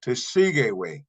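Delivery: Tesigeway said carefully with a falling end; Paiute word spoken clearly. Shown as a demonstration. Teacher modelling Tesigeway for students, carefully. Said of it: "it will change to".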